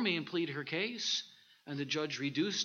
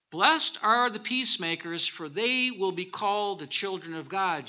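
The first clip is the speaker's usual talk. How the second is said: louder proclaiming repeat; 6 dB louder than usual. Shown as a demonstration.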